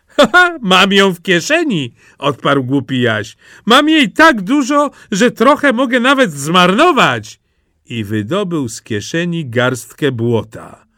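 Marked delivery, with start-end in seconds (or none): 0.1-1.9 loud, high, crowing ha-ha; gleeful boast. A narrator's reading. Simple Jack has dripping in his pocket, gleeful boast. 3.7-7.4 high, loud bragging; exuberant boast. A narrator's reading. Simple Jack has mud to spare, exuberant boast.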